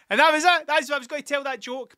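cracking up after the joke; laughing. Real, not acted. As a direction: get it out through the giggles.

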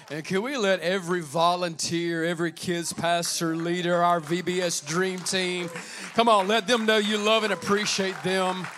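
loud rallying call; rally speech. Real, not acted. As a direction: lift the crowd to applaud. Rallying applause for volunteers.

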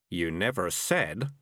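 slow, reproachful cat; accusing. Acted. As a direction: pin the blame on him slowly. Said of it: "said Morris accusingly".

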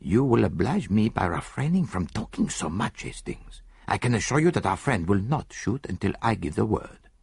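lightly voiced Belgian detective, unhurried; a hint of Poirot's dry composure; calm Poirot. Poirot's voice in story.

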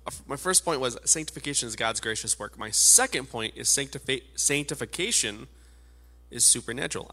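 wheezing, short of breath; wheezy voice. Real, not acted. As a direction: push words out through wheezing. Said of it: "I'm stumbling over my words. It's because I am wheezing".

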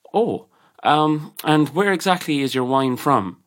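a hint of stereotypical Englishman; slow, lightly mocked highfalutin questioning; imitated highfalutin customer. Suited customer querying the barman about wine, lightly highfalutin. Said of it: "what I imagine the stereotypical Englishman to be".

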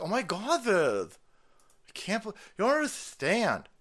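high, hammed-up dismay; mock distraught activist. Activist pleading for Ukrainians, mock distraught. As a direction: whine it in mocking overreaction.

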